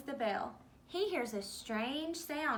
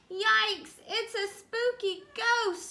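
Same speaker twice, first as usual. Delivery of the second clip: high, loud yelp of fright; scared scream; 9 semitones higher, 9 dB louder, slower than usual. Acted. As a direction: shriek as if a ghost just appeared. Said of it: "screams Pete".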